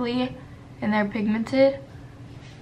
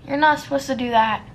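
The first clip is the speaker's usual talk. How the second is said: quick self-scolding; 3 semitones higher, 4 dB louder, much faster than usual. Real, not acted. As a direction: rattle off the telling-off at herself. Scolding herself over a makeup mistake.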